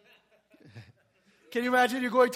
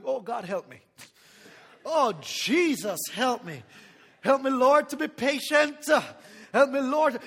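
mock desperate prayer.

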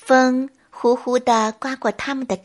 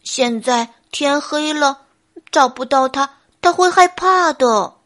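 anxious bear; 2 semitones higher, 4 dB louder than usual. Acted. Bear worries his lost name is afraid, anxiously. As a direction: fret aloud as a storybook bear. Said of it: "笨熊着急地说".

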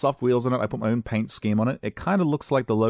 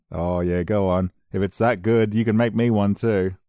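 dad's tease; 5 dB louder than usual. Retold or imitated. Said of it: "dad voiced in story".

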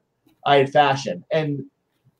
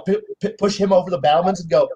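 ordinary talk, nothing marked

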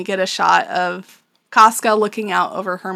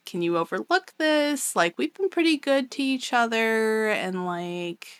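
imitated groveling. Defeated Genin begging Griffith's mercy, mock groveling. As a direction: plead lightly, as if talking your way out. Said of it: "Genin starts groveling".

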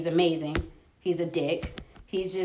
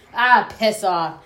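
put-on old Irishman accent; 6 dB louder, slower than usual. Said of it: "some old Irishman".

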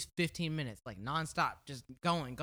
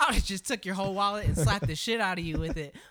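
chuckling mock threat; laughing threat; 3 semitones higher, 4 dB louder than usual. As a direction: say it through laughter. Laughing while scolding.

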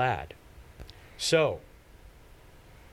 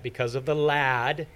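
"lad" leaned on at the end; stress on lad. Real, not acted. Preacher reading scripture aloud, stress on "lad". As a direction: land on "lad" with weight. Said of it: "emphasis on that word lad".

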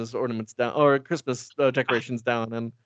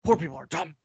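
mock yelling. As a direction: proclaim it like a ranting rich snob. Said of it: "Just yelling it".

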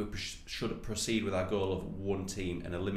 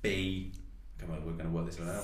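lips not touching; 2 semitones lower than usual. Real, not acted. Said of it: "Are you just trying not to touch it?".

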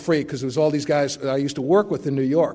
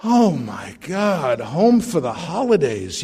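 inner dismay; slower than usual. Retold or imitated. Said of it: "moments of going".

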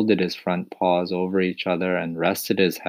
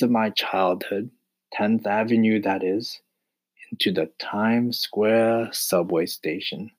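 choked up; 4 semitones higher than usual. Acted. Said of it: "his voice was all choked up with emotion".

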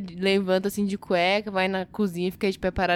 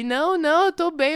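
put-on higher, insistent drunk denial; husband insisting he is fine to drive; 7 semitones higher, 3 dB louder than usual. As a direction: play the stubborn drunk husband brushing her off. Wife retells drunk husband's refusals.

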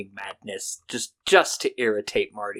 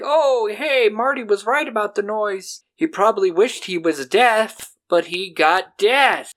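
Crypt Keeper voice; 8 semitones higher than usual. Retold or imitated. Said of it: "the Crypt Keeper's like".

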